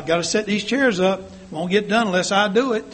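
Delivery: lightly acted too busy to talk; busy self-important excuse. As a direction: play the one who must do it all. Acting out busy church member's brush-off.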